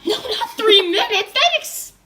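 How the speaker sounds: laughing. Real, not acted. Laughing correction of a wrong time.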